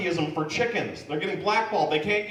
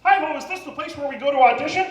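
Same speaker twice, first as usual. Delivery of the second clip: Muppet voice; 10 semitones higher, 4 dB louder, faster than usual. Pretend. Muppet voice auditions.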